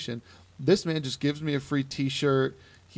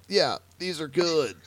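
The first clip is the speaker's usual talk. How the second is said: slow, higher fake-polite praise; feigned approval; 4 semitones higher, slower than usual. Coffee drinker choking down decaf samples, feigned approval. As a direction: choke out mock approval slowly. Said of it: "as I choked them down".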